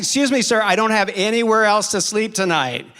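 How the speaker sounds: stranded traveller pleading into the intercom; loud plea. Retold or imitated. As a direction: beg loudly to be let in.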